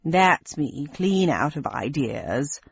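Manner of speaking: slow, low grumble; resigned grumble, slow; grumbling. Acted. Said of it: "grumbled Ersatz Sprocket with a shrug".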